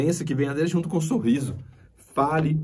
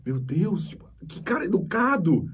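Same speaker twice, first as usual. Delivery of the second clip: impressed surprise; 4 semitones higher, 3 dB quieter than usual. Retold or imitated. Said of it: "As pessoas ficam assim".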